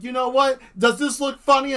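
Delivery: teasing. Acted. Teasing the robber.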